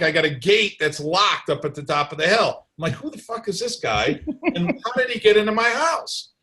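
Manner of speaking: mildly indignant, voice rising on the questions; retold pissed-off disbelief. Storyteller replays finding a stranger inside his locked gate, pissed-off disbelief. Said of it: "I'm pissed off because I'm like".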